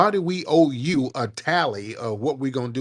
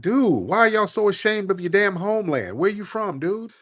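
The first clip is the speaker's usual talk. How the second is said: exasperated; 6 semitones higher than usual. Real, not acted. Exasperated demand about homeland.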